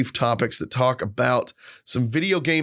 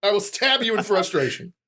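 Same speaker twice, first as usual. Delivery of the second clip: mock frustrated dad; 4 semitones higher than usual.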